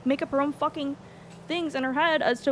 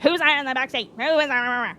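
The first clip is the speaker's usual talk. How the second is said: mock pressing; 5 dB louder than usual. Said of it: "press me and be like".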